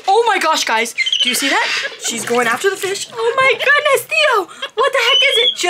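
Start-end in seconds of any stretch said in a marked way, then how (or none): 3.1-5.6 high, giggling exclamation; amused high squeal; laughing surprise. Real, not acted. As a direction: laugh in shock at the monkey. Monkey catches the fish.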